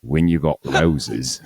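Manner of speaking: very slow Australian tagline, laughing; mock Australian ad read, slowly through a laugh; Australian accent attempt. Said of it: "Australian accent".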